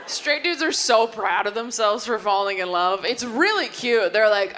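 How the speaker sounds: ordinary delivery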